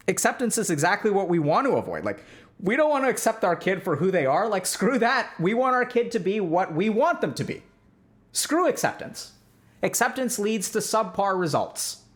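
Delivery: mock-strict parent, rising on screw acceptance; mock authoritarian parent. Therapist parodies an authoritarian parent to his audience, mock-dismissive. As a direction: scoff at acceptance like a rigid parent.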